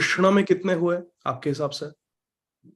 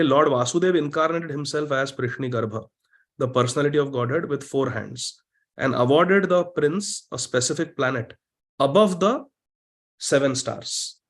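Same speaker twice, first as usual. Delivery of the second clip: reading scripture aloud; much slower than usual. Real, not acted. Reads English commentary to the class.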